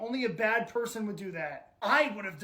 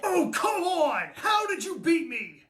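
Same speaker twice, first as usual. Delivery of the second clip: exasperated protest; 4 semitones higher than usual. Acted. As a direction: protest the loss in disbelief. Dad beaten at the game.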